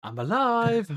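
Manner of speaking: high hammed-up cry, laughing through it; laughing mimicry for his co-host; laughing imitation. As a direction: crack up while mimicking the line. Re-enacting Aegon's line again.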